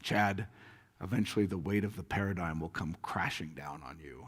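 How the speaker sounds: low, lightly Scottish mentor voice; attempted Scottish accent. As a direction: imitate a Scottish elder's brogue, loosely. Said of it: "with a Scottish accent, which I can't do".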